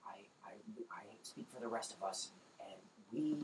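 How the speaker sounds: hushed, half whispered goblin voice; hushed goblin matriarch bargaining through the door. Acted. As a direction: speak softly, wary and secretive.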